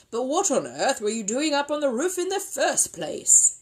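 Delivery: loud, high, baffled demand; exasperated questioning. Acted. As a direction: demand to know, incredulous. Mister Brown demands an explanation.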